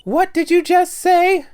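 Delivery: slow, menacing character growl; lightly voiced menace; deep menacing voice. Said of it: "That's not her voice".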